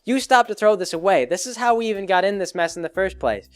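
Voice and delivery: mock outraged scolding; really mad. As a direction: tell them off, playing an angry rabbit. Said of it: "she gets really mad".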